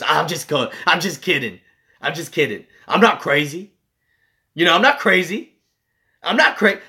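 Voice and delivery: mock reassurance climbing in pitch with each repeat; imitating insistent hitchhiker. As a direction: protest too much, like an unsettling passenger. Acting the hitchhiker's frantic reassurance.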